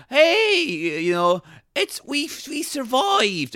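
mock relieved wife. Retelling the film, wife greets him in a high voice. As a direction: play the wife, breathless with relief. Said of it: "she comes up like".

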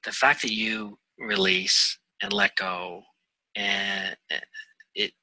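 real emotion, voice dropping to near whisper; halting and hushed, fighting back feeling; getting emotional. Real, not acted. Guest moved while sharing what helped him, getting emotional. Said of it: "I don't know why I'm getting emotional".

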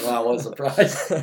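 slow, dry mock amazement; sarcastic wow. Real, not acted. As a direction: laugh it off, deadpan. Friend predictably picks the favorite.

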